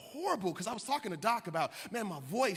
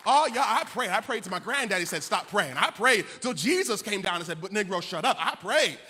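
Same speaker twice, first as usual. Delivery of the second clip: loud, punchy preacher's exclaiming; fervent boasting; 9 dB louder than usual. Real, not acted. Preacher telling the congregation how he prayed, loud and fervent. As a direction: belt it out with comic fervor.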